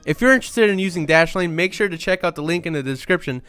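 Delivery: ad read. Acted. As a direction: pitch the product with energy. Reads the sponsor ad.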